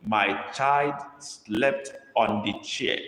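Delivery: put-on My child slept said word by word, very slow; slow dictation. Shown as a demonstration. Teacher dictating to the class, very slow and clear. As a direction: spell it out slowly for the class to copy. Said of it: "dictating a sentence to copy".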